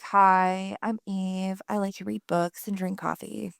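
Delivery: mellow imitation of the chill one; Eve. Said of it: "Because you're the chill one".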